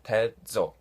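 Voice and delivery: "Tetzo" split into tet, then zo; deliberate, broken-up "Tetzo"; syllable-by-syllable pronunciation. Shown as a demonstration. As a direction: repeat "Tetzo" with a gap between syllables. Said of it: "to pronounce sounds like".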